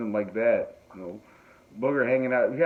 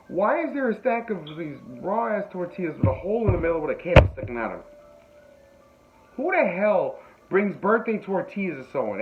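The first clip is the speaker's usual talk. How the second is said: retold bafflement; 7 semitones higher than usual. Retelling his baffled reaction.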